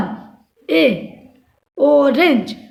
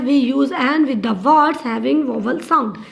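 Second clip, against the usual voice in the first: slow dictation; much slower than usual. Shown as a demonstration. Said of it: "teacher dictating the rule".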